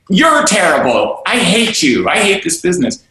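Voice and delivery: hammed-up angry comeback; imitating a reactive angry reply; mock angry retort. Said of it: "And then we say".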